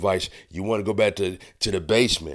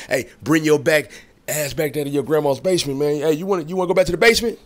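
loud, higher-pitched scolding; scolding threat; 5 semitones higher, 4 dB louder, faster than usual. Acted. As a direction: chew him out like a fed-up elder. Scolding Kanye, threatening basement.

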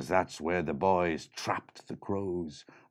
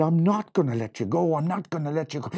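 put-on determined girl; 8 semitones higher, 6 dB louder, faster than usual. Lily holds the leprechaun.

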